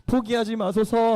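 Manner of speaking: acted weeping plea; mock tearful plea. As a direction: beg slowly as if crying. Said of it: "하면서 막 울기 시작해요".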